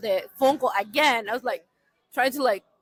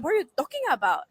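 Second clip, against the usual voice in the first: mildly indignant, quick and a little higher; retold angry challenge; 4 semitones higher, faster than usual. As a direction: reenact an irritated confrontation at a brisk pace. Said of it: "I was, like, really angry".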